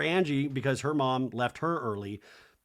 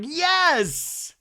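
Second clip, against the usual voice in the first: mock excited, much higher squeal; eager yes; 8 dB louder than usual. The speaker gushing to Andy about a band, in a high squeal. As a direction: squeal it like a thrilled fan.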